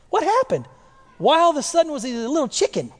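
high-pitched, baffled questioning; quick, teasing disbelief; incredulous. Acted. Preacher asking why Peter turned chicken, incredulous and high.

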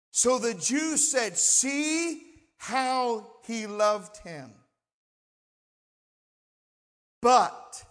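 slow, deliberate pulpit reading; weighty Bible reading with long pauses; Scripture reading. A narrator's reading. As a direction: draw out the key words for the congregation. Reads Scripture to congregation.

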